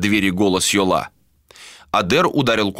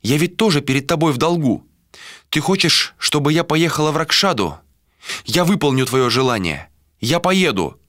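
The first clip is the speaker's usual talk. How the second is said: put-on a higher, determined young woman's voice; Malika resolved; 8 semitones higher than usual. A narrator's reading. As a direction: give in with resolve. Malika accepts duty, high voice. (решительно, высоким голосом)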